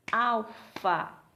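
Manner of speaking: AL - FA in two firm beats; syllable by syllable. Shown as a demonstration. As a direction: split "Alfa" into two separate syllables. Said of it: "dividir as palavras em sílabas".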